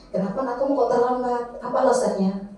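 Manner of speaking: neutral manager teacher. Shown as a demonstration. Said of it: "suaranya netral".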